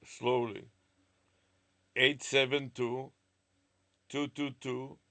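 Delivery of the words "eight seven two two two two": slow, carefully spelled-out digits; every digit crisp and separate; over enunciating. Shown as a demonstration. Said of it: "let me repeat it again, slowly".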